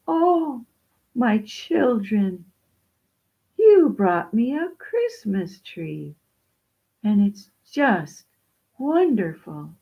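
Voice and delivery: slow, lightly voiced wonder; awed old widow. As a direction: draw it out in touched amazement. Widow marvels at the Christmas tree.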